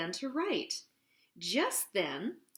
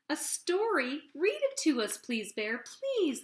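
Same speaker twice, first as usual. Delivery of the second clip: excited pleading; 5 semitones higher than usual. Acted. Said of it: "they all shouted".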